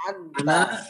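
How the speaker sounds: slow word held out for repetition; model reading. Shown as a demonstration. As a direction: stretch it out for pupils to echo. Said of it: "Coba ane membaca".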